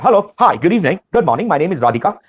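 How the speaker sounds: bright, confident self-introduction. Shown as a demonstration. Trainer demos a candidate giving their best shot, confidently. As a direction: greet them like you own the room. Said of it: "give it your best shot".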